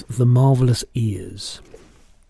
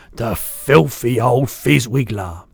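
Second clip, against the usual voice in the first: slow, drawn-out giant's insult, raised voice; indignant shout; 5 dB louder, slower than usual. Acted. BFG hearing of Sophie's cruel matron, mildly shouted indignation. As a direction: curse her slowly, with mild outrage. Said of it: "shouted the B F G".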